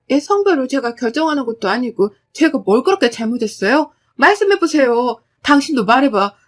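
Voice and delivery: wife demanding what she did wrong; defiant protest. Acted. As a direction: stand up to them. Narrator pushes back tearfully.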